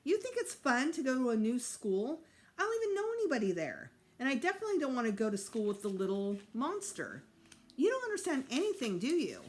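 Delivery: high, loud upset yelling; furious boy refusing the new school; angry outburst. A narrator's reading. Peter yells at Mom.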